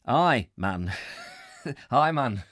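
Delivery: Geordie try. Retold or imitated. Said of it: "crap at the accent".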